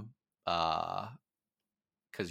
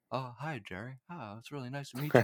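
imitating Segel; 4 semitones higher, 4 dB quieter than usual. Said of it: "doing an impression of Jerry West".

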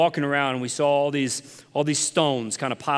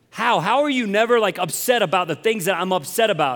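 higher, pushed baffled question; exasperated disbelief; 5 semitones higher, 4 dB louder than usual. Retold or imitated. Family member on the phone to preacher, exasperated disbelief. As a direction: imitate an upset relative, incredulous.

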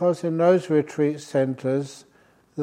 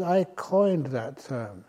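ordinary talk, nothing marked

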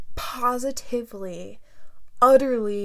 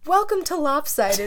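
wild unhinged ranting; 3 semitones higher, 4 dB louder than usual. Real, not acted. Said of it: "I'm still acting like a crazy person".

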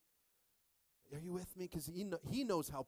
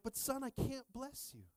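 high, slow mock protest; pained dad; 11 semitones higher than usual. Dad refusing his pleading son, pained protest. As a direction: draw out a helpless refusal, pitched high.

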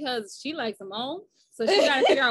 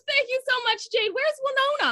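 imitating fan; 11 semitones higher than usual. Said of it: "And she goes".

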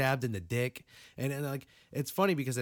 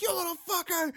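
mock angry sister; 4 dB louder than usual. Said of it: "she's like".

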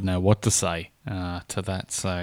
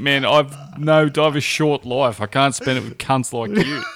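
fed-up ultimatum; 2 semitones higher than usual. Retold or imitated. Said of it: "I'd fucking just have to go".

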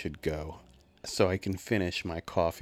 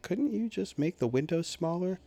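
incredulous; 11 semitones higher than usual. Retold or imitated. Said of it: "people would be like".

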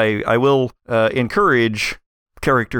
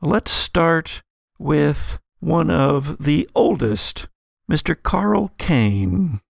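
measured game master narration, slightly raised pitch; scene setting; 4 semitones higher than usual. Acted. Game master introducing ferry passengers to players, scene setting.

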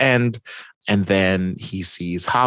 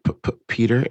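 Aunt May stammering; 4 semitones higher, much faster than usual. Acted. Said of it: "'cause Aunt May is like".

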